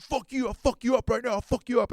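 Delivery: high, loud imitation of a raging surfer; mock threat. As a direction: threaten like a hothead bro. Acted threat in surf quarrel.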